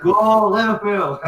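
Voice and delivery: high, loud, slow Go Liverpool chant. Real, not acted. Tipsy man cheering Liverpool to his friend, loud and slow. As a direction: cheer like a fan on the terrace.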